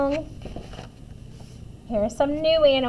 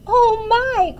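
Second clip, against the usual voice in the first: put-on high, loud flattered old woman; pitched-up storybook gush; delighted cry; 9 semitones higher, 7 dB louder than usual. A narrator's reading. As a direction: exclaim it with pleased surprise. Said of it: "cried the tiny old woman".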